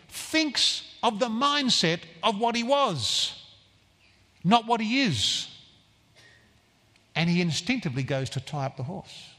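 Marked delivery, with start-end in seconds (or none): none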